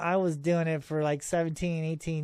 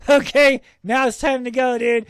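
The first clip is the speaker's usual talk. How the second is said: laughing; 6 semitones higher, 9 dB louder than usual. Real, not acted. Laughing at the danger.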